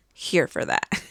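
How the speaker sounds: breathy whispered repeat of "Here for that"; whispered echo. Real, not acted. Echoing her own approval to viewers, in a soft whisper. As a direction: whisper it back to yourself. Quiet echo of previous line.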